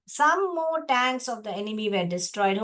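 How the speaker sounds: slow, deliberate reading of the line; slow reading aloud. Shown as a demonstration. Teacher reading the textbook line slowly to students. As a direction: read it out slowly for the class. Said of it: "teacher reading text slowly".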